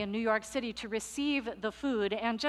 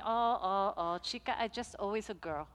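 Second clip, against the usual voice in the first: soft tender quote; 3 semitones lower, 6 dB quieter, faster than usual. Retold or imitated. Luisa quoted speaking to pastor.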